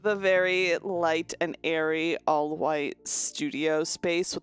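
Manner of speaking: life coach voice. Pretend. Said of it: "The way of speaking".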